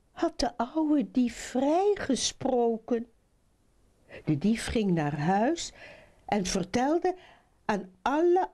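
put-on lively children's storytelling; animated fairy-tale narrator; story narration. A narrator's reading. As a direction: read it to children with rising, swinging lines.

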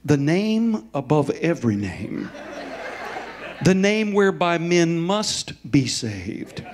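slow, measured healing prayer; calm prayer. Retold or imitated. Preacher retelling his prayer over the trainee, calm and slow. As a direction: pray it steadily, word by word. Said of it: "very calmly".

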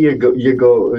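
normal talking voice

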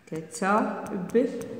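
"كتبت" very slow and soft, in separate syllables; slow dictation. Shown as a demonstration. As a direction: quietly break "كتبت" apart with pauses.

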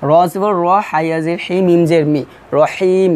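teacher spelling of রহিম; spelling out letters. Shown as a demonstration. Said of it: "ঠিক সেইভাবেই বানান করবেন". (বানান করে পড়া)

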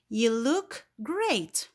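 drawn-out compliment, stress on GREAT; slow exclaimed example. Shown as a demonstration. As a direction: praise it slowly and brightly. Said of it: "examples of exclamatory sentences".

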